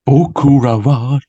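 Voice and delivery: slow, breathy-free crooning singer impression, lightly voiced; 歌手風. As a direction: stretch each word out slowly like a crooner. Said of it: "福山雅治風に言うわ". (歌手風にゆっくり歌うように)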